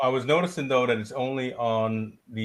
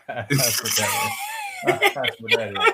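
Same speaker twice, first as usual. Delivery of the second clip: laughing loudly through the words; 5 dB louder than usual. Real, not acted. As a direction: crack up laughing as you say it. Laughing at friend's joke.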